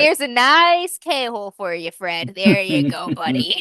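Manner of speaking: coaxing the horse. Acted. Soothing the horse Fred.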